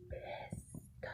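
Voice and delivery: "pissed" drawn out slowly with a long hiss; emphatic stress. Real, not acted. Storyteller on her mom's anger, "pissed" drawn out for emphasis. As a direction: stretch "pissed" for dramatic weight. Stressing how angry mom was.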